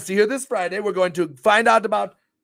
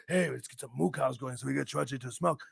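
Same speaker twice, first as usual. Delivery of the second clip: quoting chatters; 7 semitones lower, 10 dB quieter than usual. Retold or imitated. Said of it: "get each other going with some".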